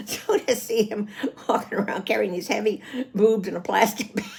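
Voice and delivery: telling it through laughter; amused laughing. Real, not acted. Daughter recalling her prim dad carrying the prostheses, amused laughing. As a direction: let laughs break into the words. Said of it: "I can laugh now".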